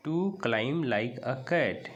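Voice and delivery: very slow, word by word; slow reading aloud. Shown as a demonstration. Teacher re-reading the line to students, very slowly. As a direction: read it out slowly for the class. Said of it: "climb मतलब चढ़ना".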